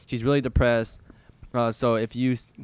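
stumbling through a message read aloud; halting read-aloud. Real, not acted. Reading a fan's message to podcast friends, haltingly. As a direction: read it out haltingly, with false starts and restarts. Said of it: "I can't read".

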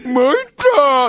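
slow, loud, drawn-out cry; mock defeated ogre. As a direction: bellow a cartoon villain's surrender. (負けた鬼が大げさに叫ぶ)

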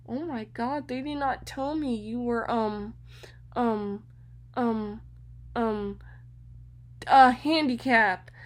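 flustered teacher, stammering over the word; nervous stammer. Retold or imitated. A flustered teacher at the door, nervously stammering. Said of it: "And she was so nervous".

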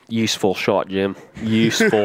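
hushed golf commentary; golf commentator voice. Retold or imitated. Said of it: "my golf voice".

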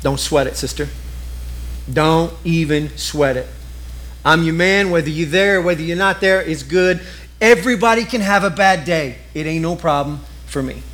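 relaxed low reassurance; reassuring husband. Retold or imitated. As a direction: tell her it's all fine. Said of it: "and says".

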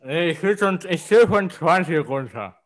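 talking around a cork in mouth. Real, not acted. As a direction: speak with a cork between the teeth. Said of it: "Oh, mein Unterkiefer".

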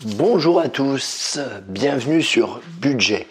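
hoarse, losing voice. Real, not acted. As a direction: speak through a lost voice. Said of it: "j'ai pas une très belle voix".

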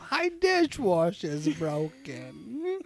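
mock porno line.

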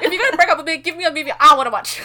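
loud, high complaint breaking into laughter; mock exasperation. Scolding the absent ex about the movie, laughing mock outrage. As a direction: gripe through a laugh, rising in pitch.

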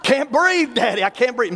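mock dying child. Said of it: "I even told my daddy".

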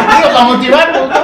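high and loud, laughing. Real, not acted. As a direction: burst out laughing, then talk. Joking about publishing comments.

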